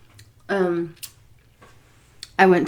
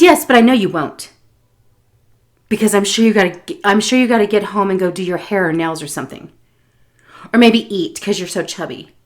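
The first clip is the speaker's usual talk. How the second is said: mocking old woman; 5 dB louder than usual. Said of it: "And she goes".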